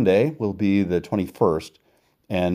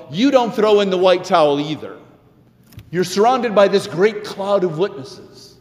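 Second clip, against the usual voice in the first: rousing exhortation; 12 semitones higher, 4 dB louder than usual. Acted. Preacher voicing the letter's exhortation.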